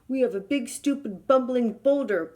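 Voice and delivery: mild lion growl. Acted. Trapped lion to the elephant, mock growl. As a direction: grumble it out, annoyed. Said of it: "growled the lion".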